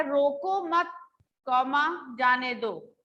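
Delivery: रोको मत said as one unit, a break, then जाने दो; group रोको with मत, pause, then say जाने दो; pause after मत. Shown as a demonstration. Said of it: "अगर यही कॉमा देखो मत के बाद लगा है".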